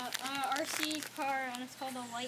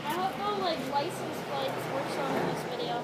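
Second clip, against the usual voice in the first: louder, clearer repeat; 4 dB louder than usual. Real, not acted. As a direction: say it again so he hears.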